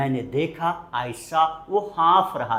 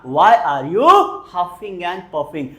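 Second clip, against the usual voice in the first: slow, emphatic repeat; 2 semitones higher, 7 dB louder, much slower than usual. Shown as a demonstration. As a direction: echo it slowly. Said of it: "बोलेंगे जरा". (धीमी दोहराहट)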